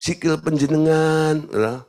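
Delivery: slow, over-courteous complaint; a mild, honeyed Solo reproach; polite Javanese. Retold or imitated. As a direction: complain sweetly in refined Javanese. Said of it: "Kakimu ada di atas kakiku".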